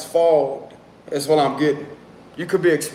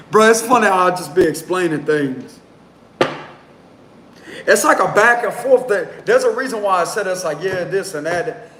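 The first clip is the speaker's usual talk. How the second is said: amused; 4 semitones higher than usual. Real, not acted. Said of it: "I'm trying not to laugh".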